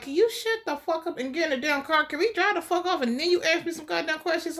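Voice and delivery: high-pitched mock scolding; hammed-up impatient telling-off; acted exasperation. Acts exasperated Dexter scolding Harrison.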